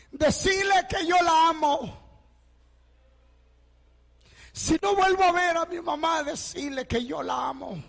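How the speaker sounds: pleading call. Retold or imitated. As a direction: send the message as if it were the last one. Boy's dying message to mother.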